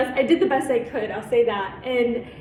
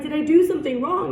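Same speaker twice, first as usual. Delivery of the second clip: quick, higher-pitched anxious question; retold upset; 4 semitones higher, 4 dB louder, faster than usual. Youth worker asking director what went wrong, mildly upset. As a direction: replay an upset plea for an explanation. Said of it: "I was just really upset".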